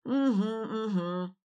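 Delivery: slow, humming mm-hmm; old man humming assent beside his wife; mumbled agreement. A narrator's reading. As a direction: hum your agreement slowly. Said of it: "мычал рядом Гюнтер".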